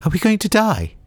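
very high, shrill panicky repeat. A narrator's reading. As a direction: squeal it again, high and scared. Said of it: "the shrill voice repeated".

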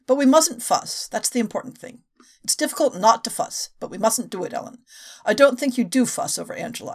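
reading a novel aloud, lightly voicing each character; a podcaster reads a passage from the novel aloud; story reading. A narrator's reading. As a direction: read the scene like an audiobook.

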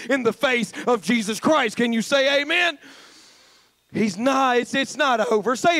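fiery gospel climax; preaching. Acted. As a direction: lift the room. Preaching at full force.

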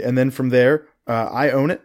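talking through heartburn; pushing words past stomach discomfort. Real, not acted. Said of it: "Excuse me, I have, like, some heartburn going".

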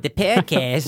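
Snake's voice. Retold or imitated. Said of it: "how Snake would say it".

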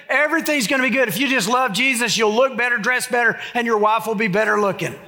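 mock TV preacher. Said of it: "I know some preachers say that".

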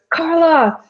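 high, drawn-out mock yell; retold yell from window. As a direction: call it out a car window without real volume. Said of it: "he yells out the window".

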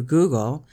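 "Google" said plainly, as Americans do. Shown as a demonstration. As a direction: say "Google" as GOO-gul. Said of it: "They say it like we do".

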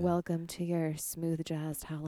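smooth radio host welcome; smooth jazz voice. Acted. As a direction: lay it on like a jazz DJ. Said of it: "a little smooth jazzy right now".

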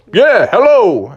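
loud, high cartoon bear; booming, lifted character greeting; Bubby the Bear. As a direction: call out a big hello as a bear. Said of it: "That sounds like Bubby".

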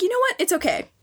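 put-on high, coy girly voice; high mock girl voice, coy; mock anime girl. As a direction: tease like a cartoon heroine. Voicing the girl in the hentai.

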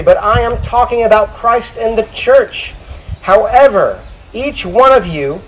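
measured, emphatic Bible reading, slowing to a weighty close; Scripture reading. Acted. Preacher reads on marriage to the church, emphatic Scripture reading. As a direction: proclaim it to the congregation.

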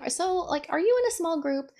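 high, quick, light put-on voice; playful mock-innocent question; casual probing question. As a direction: ask sweetly as if in passing. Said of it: "and I was like".

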